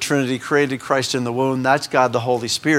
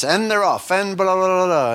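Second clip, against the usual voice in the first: race announcer call; 4 semitones higher than usual. Retold or imitated. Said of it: "that's where I got this".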